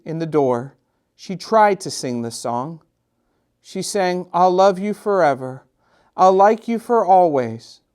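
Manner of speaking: gentle read-aloud storytelling voice; story narration. A narrator's reading. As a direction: read it like a bedtime picture book to children. Reads picture book aloud.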